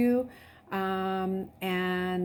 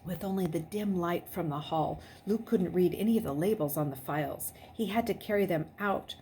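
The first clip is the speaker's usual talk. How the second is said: suspenseful read-aloud narration, dropping to a hush at the tense moments; story narration. Acted. Teacher reading a chapter aloud to her class, suspenseful narration. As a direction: read the chapter aloud and keep them on edge.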